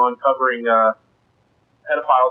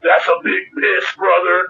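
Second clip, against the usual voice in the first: lightly voiced band member, pitched up; imitated band member; 4 semitones higher than usual. Band member to a guy at the next urinal, lightly imitated. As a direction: quote the musician, raised pitch. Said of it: "he was just like".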